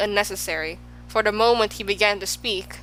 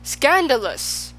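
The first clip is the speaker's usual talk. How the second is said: high, slow, drawn-out cry of scandal; outraged shout; 6 semitones higher, 3 dB louder, slower than usual. A narrator's reading. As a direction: let the king's outrage ring out. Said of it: "shouted the king".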